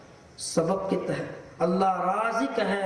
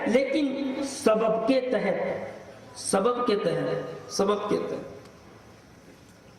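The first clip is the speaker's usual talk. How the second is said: very slow, fading to a near whisper; trailing, hedging repetition; drawn-out qualification; much slower than usual. Acted. Acted qualifier repeated, fading away.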